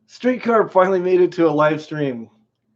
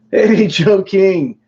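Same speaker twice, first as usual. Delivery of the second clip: slow, drawn-out teasing greeting; mock troll greeting; 3 semitones higher, 4 dB louder, much slower than usual. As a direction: stretch it out like you're baiting a troll. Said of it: "So it called for a troll".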